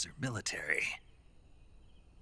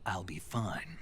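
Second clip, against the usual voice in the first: whisper; slower than usual. Acted. Tired agent brushing off concern.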